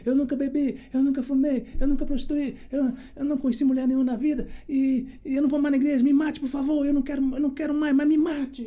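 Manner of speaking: put-on a young man begging God through tears to let him die; retold crying plea. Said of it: "mas chorando, triste, e dizendo".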